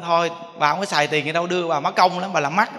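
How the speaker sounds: loud, fast brush-off; dismissive children. Retold or imitated. Grown children brushing off their old mother, loud and quick. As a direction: wave her off loudly and quickly.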